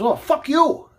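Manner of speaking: high-pitched mimicked curse; retold angry yell. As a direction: spit it out as the angry man. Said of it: "he looks at me and he yells".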